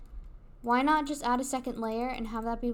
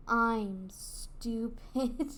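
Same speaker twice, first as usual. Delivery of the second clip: very slow, drawn-out self-mockery; sheepish realisation; 3 dB quieter, much slower than usual. Real, not acted. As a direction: stretch each word as it dawns on you. Realises own mistake.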